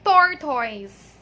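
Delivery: tortoise as TOR-toyz, loud; tortoise with a full OY in the second syllable; common mispronunciation. Shown as a demonstration. Teacher showing how most people say it, common mispronunciation. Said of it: "they pronounce this as".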